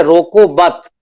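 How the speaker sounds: रोको मत run together, falling at मत; pause after मत. Shown as a demonstration. Teacher explains the second line, pause after मत. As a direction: say रोको मत as one unit. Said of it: "मत के बाद कॉमा है".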